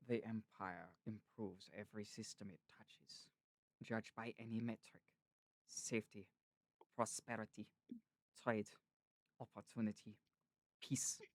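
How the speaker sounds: low, soft imitation with measured pauses; narrator's cadence. Shown as a demonstration. Showing the cadence of his voice, narrator impression. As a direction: set each word apart, quietly lilting. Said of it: "that's kinda like the cadence of his voice".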